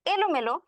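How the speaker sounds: এলোমেলো said with a clear e at the start; plain e sound. Shown as a demonstration. Teacher demonstrates the e sound in এলোমেলো. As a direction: open এলোমেলো on a clean e vowel. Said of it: "এই যে এ ধ্বনিটা".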